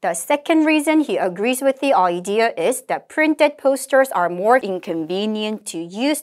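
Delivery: slow, measured English recitation; model read-aloud. Shown as a demonstration. Teacher models the conversation summary, slow deliberate reading. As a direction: read it out slowly, phrase by phrase.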